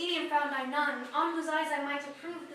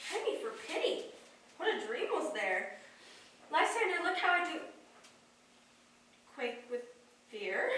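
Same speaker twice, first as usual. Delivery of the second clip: shaken whisper; 7 dB quieter than usual. Acted. Hermia trembling after dream.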